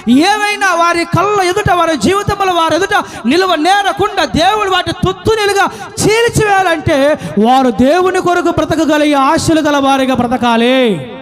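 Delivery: driving sermon delivery in long rolling runs; impassioned preaching. Acted. Preacher urging the flock to face every enemy, impassioned. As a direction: preach it at full force, piling up each item.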